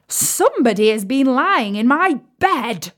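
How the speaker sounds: a hint of a big rough bear; lightly voiced huge gruff bear; great gruff bear voice. A narrator's reading. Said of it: "in his great rough, gruff voice".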